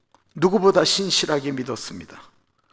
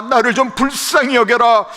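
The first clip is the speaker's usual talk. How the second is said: more pleading for pity; 10 semitones higher, 9 dB louder than usual. Acted. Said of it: "자존심을 내려놓고 하는 말".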